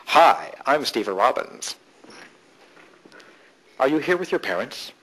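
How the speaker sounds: lightly voiced smug executive, drawn out; condescending executive. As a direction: talk down to a young-looking newcomer, slowly. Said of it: "networking looks something like this".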